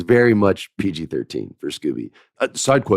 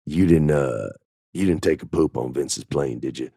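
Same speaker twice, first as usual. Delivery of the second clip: lower, hesitant mock concern; 5 semitones lower than usual. Colleague asks writer about the boss's plane, mock concerned. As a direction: ask it cautiously, imitating a worried colleague. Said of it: "he looks concerned".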